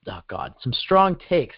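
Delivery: talking through a mouthful; words around a bite of food; mouth full. Real, not acted.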